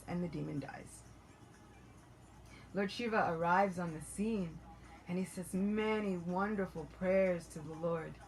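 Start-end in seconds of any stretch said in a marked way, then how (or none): none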